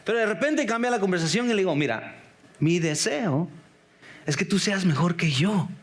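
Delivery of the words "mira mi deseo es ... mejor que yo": a father gently telling his son he wants him to be better; tender fatherly wish. Retold or imitated. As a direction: open your heart to the boy, gently. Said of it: "Le estoy dando el corazón".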